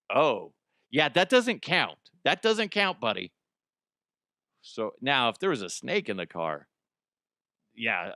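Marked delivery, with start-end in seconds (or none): 0.1-2.1 mock dismissive. Mock reply, slow. 2.2-3.3 mock dismissive. Repeat higher.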